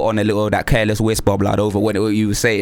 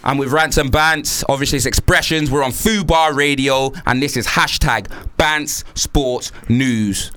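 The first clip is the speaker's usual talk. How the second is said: slow, drawn-out station plug; radio announcer read; slower than usual. Acted. Host plugging the hashtag to listeners, slow DJ read. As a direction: stretch out the show name like a DJ.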